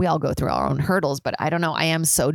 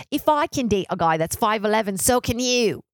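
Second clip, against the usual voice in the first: put-on rough, higher-pitched Australian accent; imitated Australian woman, pitched up; 5 semitones higher than usual. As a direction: attempt a not-very-good Australian accent. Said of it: "get better at my Australian accent".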